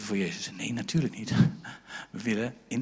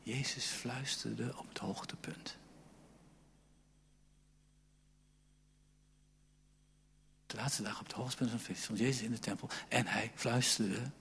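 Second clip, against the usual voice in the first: whispered; 3 semitones lower, 13 dB quieter than usual. Shown as a demonstration. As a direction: whisper it like a secret. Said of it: "Jezus riep".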